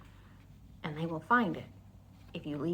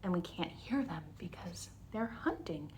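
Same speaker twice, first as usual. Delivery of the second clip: put-on whispered to kids; hushed storytime whisper; 4 semitones lower, 10 dB quieter than usual. Shown as a demonstration. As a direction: drop to a secretive whisper. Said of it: "they mostly stay quiet".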